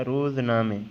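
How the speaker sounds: रोज़नामे said as "roozname" with a long u in the first syllable; careful teacher model of रोज़नामे, first vowel "oo"; Persian pronunciation. Shown as a demonstration. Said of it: "क्या पढ़ना है आपने?".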